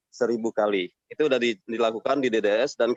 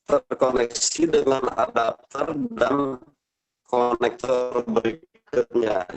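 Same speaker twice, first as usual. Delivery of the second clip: glitching audio; slower than usual. Real, not acted. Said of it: "Putus-putus, Bapak".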